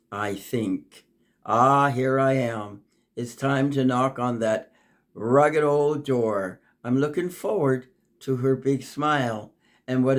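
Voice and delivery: measured, lilting poem recital; poem reading. Acted. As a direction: read it like a gentle rhyming story. Reads her own poem aloud.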